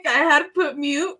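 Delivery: laughing apology. Real, not acted. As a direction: laugh at your own mic slip. Laughs at own mic mistake.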